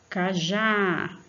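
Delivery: "Cajá" with a long, strong final "já"; teacher showing the strong syllable in "Cajá"; stress on last syllable. Shown as a demonstration. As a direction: hold the open "já" at the end of "Cajá". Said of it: "a sílaba forte é já".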